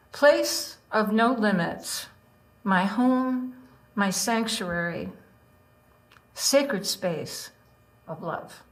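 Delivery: slow, deliberate poetry reading; poem reading. Acted. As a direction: read each line as an image. Reads her haiku aloud.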